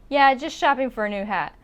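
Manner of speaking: "shopping" quick, with a soft "ng" ending; quiet G. Shown as a demonstration. Teacher models the line, quiet-G "shopping". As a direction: run "shopping" into "for" at a brisk pace. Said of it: "but it's very quiet".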